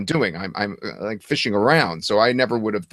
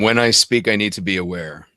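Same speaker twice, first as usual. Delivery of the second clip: lower, more resonant; 3 dB louder than usual. Shown as a demonstration. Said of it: "the voice is lower and has more resonance".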